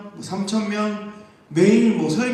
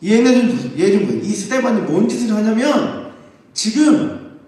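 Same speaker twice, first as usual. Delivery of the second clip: tattling accuser; 3 dB louder than usual. Acted. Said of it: "가서 고발합니다".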